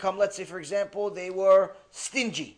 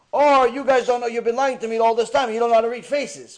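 loud, higher, enraged king accusing his advisors; furious accusation; 5 semitones higher, 9 dB louder than usual. Retold or imitated. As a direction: blast them as liars, rising in fury. King accuses his face readers.

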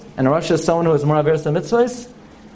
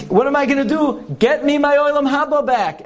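tormented father; 10 semitones higher than usual. Acted. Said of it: "He says".

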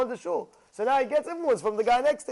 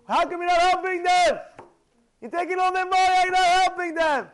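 high, loud, jeering rebuke; mocking scold; 4 semitones higher, 5 dB louder than usual. Miriam scolding the altar in the Temple: high, loud jeering rebuke. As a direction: berate the altar with scorn. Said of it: "and she told him".

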